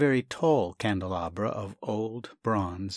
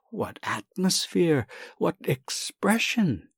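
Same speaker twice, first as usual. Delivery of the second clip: higher, swooning admiration, slowing at the end; rapturous praise; 6 semitones higher than usual. Acted. Young man rhapsodizing to the doctor, higher rapturous praise. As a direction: gush over the beauty as if moved. Sasha rhapsodizing over the bronze.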